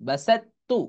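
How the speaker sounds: বাসাত্তু with doubled t, rising; বাসাত্তু recited as in Quran reading; recited Arabic. Shown as a demonstration. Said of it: "এরকম".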